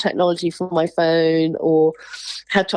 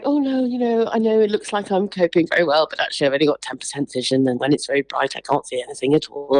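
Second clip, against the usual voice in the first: polite explaining; 5 semitones lower than usual. Retold or imitated. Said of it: "I was really polite".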